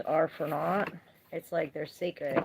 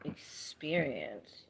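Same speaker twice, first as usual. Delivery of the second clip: whisper; 4 semitones lower, 7 dB quieter, much slower than usual. Real, not acted. Drawn-out whispered key word.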